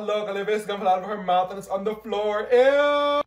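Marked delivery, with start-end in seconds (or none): 2.5-3.2 ew. Real, not acted. Gum fell on the floor.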